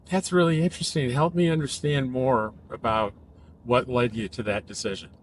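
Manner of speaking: interested, non-judgmental invitation to explain; curious. Shown as a demonstration. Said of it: "It sounds curious".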